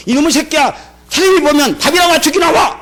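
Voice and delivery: father yelling at son watching TV; angry shout. Retold or imitated. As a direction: bellow at the lazy boy.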